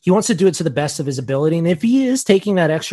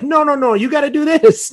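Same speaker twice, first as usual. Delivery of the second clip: put-on drunk locals; 10 semitones higher, 4 dB louder than usual. Drunk locals correcting accent.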